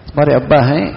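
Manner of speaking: "ابا ہیں" rising at the end; question. Shown as a demonstration. Preacher asking the child about his father, questioning rise on ابا ہیں. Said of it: "میں اس کو سوال بھی کر رہا ہوں".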